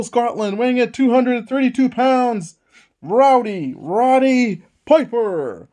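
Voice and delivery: names stretched out slow; drawn-out ringside introduction; ring announcer intro. Acted. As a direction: boom out each name like a ring announcer.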